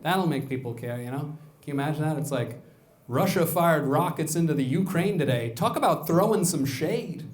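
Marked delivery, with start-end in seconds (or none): 3.1-7.2 entertainment news voice. Retold or imitated. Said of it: "the way they talk about, like, entertainment news".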